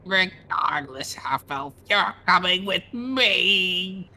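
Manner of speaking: lightly voiced haughty vampire; a touch of cold vampire menace. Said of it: "Show us your best vampire voice".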